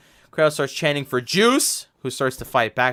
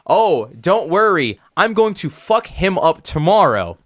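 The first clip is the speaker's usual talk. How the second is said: cocky wrestler threat; 4 semitones higher, 5 dB louder, slower than usual. Retold or imitated. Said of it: "and Juice is like".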